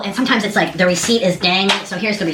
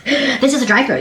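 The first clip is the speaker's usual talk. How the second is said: higher, stressed IS in "This is a drive-thru."; amazed disbelief again; 5 semitones higher than usual. Real, not acted. Telling viewers about the drive-thru, stressing is. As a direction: hammer "is" in "This is a drive-thru." with wonder. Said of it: "amazed repeat".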